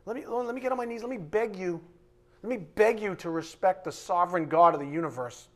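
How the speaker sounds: hammed-up servile pleading; mock grovelling. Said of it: "everybody's like".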